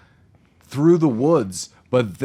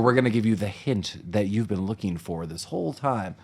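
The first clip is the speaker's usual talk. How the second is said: video game voice; 4 semitones lower, 6 dB quieter than usual. Retold or imitated. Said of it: "like a video game".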